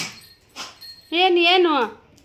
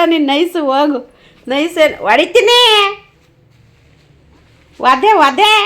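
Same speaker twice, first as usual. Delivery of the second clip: mock threat; 9 dB louder than usual. Real, not acted. Threatening the dog.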